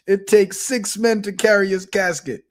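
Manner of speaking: put-on Jamaican accent. Old monkey explains his answer to the host, imitated Jamaican accent. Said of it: "they got Jamaican accents".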